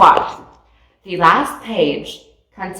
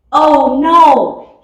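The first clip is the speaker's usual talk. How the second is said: higher, louder cry of alarm; shouted; 8 semitones higher, 7 dB louder than usual. A narrator's reading. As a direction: Winnie sees the rocket eaten, shouts. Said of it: "shouted Winnie".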